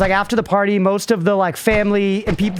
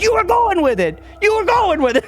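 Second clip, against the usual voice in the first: playful high scolding wife; imitating stepmom; 13 semitones higher than usual. Stepmom scolding dad for playing along, high and teasing. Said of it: "she hits him on the chest and she goes".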